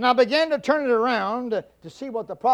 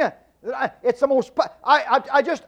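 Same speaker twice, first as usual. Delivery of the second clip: sputtering false starts, too upset to finish; stuttering; 4 semitones higher than usual. Retold or imitated. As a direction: trip over the words in frustration. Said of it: "I began to stutter and stutter".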